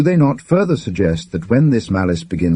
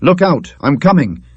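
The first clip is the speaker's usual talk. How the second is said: muffled choky voice; 7 semitones higher, 5 dB louder than usual. Acted. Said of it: "a rather muffled and choky voice".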